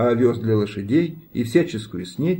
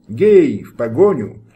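rallying shout; 6 dB louder than usual. A narrator's reading. Lady calls riders to chase.

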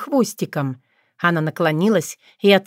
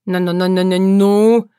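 stuck on ну, last push louder; stammer, can't get going; stammer start; 4 dB louder than usual. A narrator's reading. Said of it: "начал Лёлик". (заикаясь)

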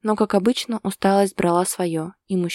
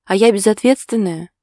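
с укоризной; 2 semitones higher, 7 dB louder than usual. A narrator's reading. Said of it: "сукоризной спросила девушка".

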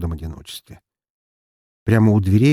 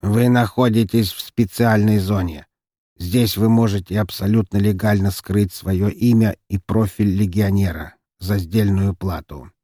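slow mechanical android voice; a patched-together old robot droning. Acted. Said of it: "механическим голосом".

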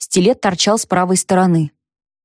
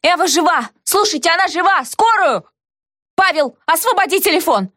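much higher shout over everyone; 9 semitones higher than usual. A narrator's reading. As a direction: yell to be heard above the noise. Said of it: "Тут и я заорала".

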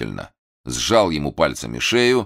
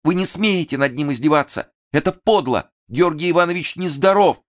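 возмущённый крик; indignant outcry; 12 semitones higher than usual. A narrator's reading. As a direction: fiercely defend the sick man. Durova defending him.

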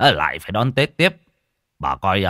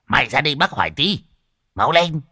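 raised, higher-pitched summons; calling over; 5 semitones higher than usual. Acted. Old man summoning the worker to the fence, raised voice. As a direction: order the youngster over briskly.

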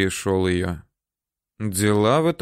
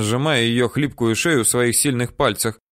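ordinary delivery, nothing marked

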